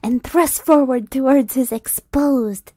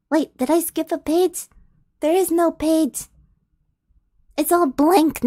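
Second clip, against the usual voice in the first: startled, higher puzzled voice; suddenly lost mid-read; confused; 4 semitones higher than usual. Real, not acted. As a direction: reader baffled by a blank page. Reader finds a blank page.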